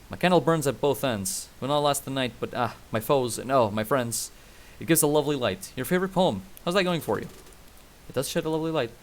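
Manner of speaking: put-on Western-accent narrator reciting; lightly drawled Western accent. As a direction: read the poem as a cowboy narrator, in accent. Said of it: "I can keep doing the accent".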